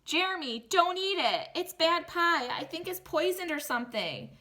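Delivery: put-on a boy in a panic warning his friend off the pie; panicked warning. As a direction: blurt it out in a panic. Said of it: "It was at that point that I panicked".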